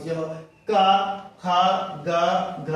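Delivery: क, ख, ग, घ sounded from the throat, one by one; teacher demonstrating throat-made क, ख, ग, घ; velar letter demo. Shown as a demonstration. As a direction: recite क, ख, ग, घ as separate velar syllables with pauses. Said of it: "इसका उच्चारण स्थान आपका कंठ से होता है".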